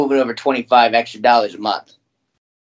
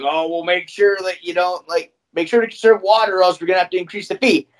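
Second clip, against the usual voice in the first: much higher, prissy mock of the management; mocking the landlord; 6 semitones higher than usual. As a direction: parody their note in a higher voice. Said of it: "they were like".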